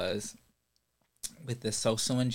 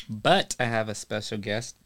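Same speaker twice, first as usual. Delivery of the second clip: hiccups. Real, not acted. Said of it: "Excuse me, I have the hiccups".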